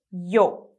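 yo with the o strong; stress the o. Shown as a demonstration. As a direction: lean on the vowel in yo. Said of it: "a parte mais forte é o o".

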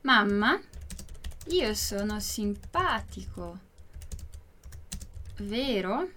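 word by word with long pauses; slow, spaced-out demonstration for learners; slow model reading. Shown as a demonstration. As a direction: dictate slowly, letting "vero" rise as a question. Teacher repeats it word by word.

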